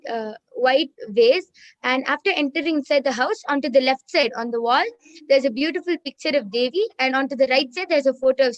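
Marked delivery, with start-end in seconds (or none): 1.8-6.8 louder. Real, not acted. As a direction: clear and a little louder. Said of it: "repeat a little louder".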